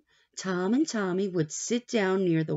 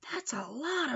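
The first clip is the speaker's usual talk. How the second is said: soft whisper aside; 8 semitones higher, 6 dB quieter than usual. Real, not acted. Aside to child while reading.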